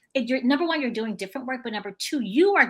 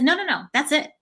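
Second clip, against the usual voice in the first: laughing reply; 4 semitones higher, 4 dB louder than usual. Retold or imitated.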